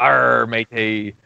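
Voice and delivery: slow drawn-out mock pirate. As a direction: ham up a pirate greeting. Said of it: "'cause I'm a pirate".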